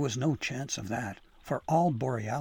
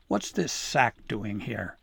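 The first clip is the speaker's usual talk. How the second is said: slow suspicious demand; slower than usual. Acted. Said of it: "Fanafru demanded".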